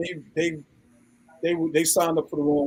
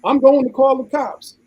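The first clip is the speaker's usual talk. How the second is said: mock threat; 7 semitones higher, 4 dB louder than usual. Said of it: "I ain't gonna say what he said".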